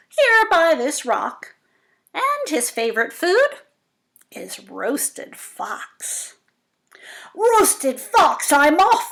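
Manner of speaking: high and loud, building to a panicked cry; loud high excitement as the fox panics; dramatic exclamation. Acted. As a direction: make it sound thrilling for the kids. Mouse then fox fleeing.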